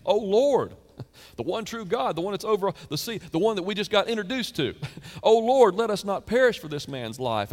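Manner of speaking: high, loud pleading prayer; desperate cry. Acted. Sailors crying out to the Lord, loud desperate plea. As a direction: cry out to God in panic.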